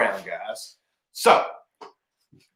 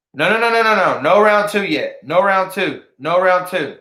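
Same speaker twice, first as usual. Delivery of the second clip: urgent no; 4 semitones higher than usual. Real, not acted. Stopping eager commenters.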